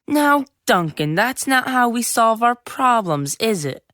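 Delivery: mock a syrupy teacher; a hint of a sweet teacher. Boy imitating a nice teacher.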